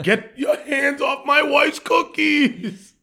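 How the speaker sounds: high, slow, laughing Arnold-style line; a loose, hammed-up action-hero growl drawn out; Arnold impression. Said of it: "That was my best Arnold impersonation".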